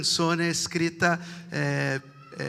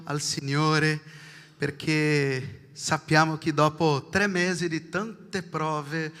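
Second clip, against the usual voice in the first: ordinary talk, nothing marked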